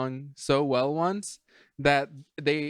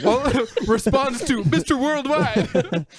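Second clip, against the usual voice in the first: high, slow, through laughter; laughing; 9 semitones higher, 3 dB louder, much slower than usual. Real, not acted. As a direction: laugh out the words. Laughing at the joke.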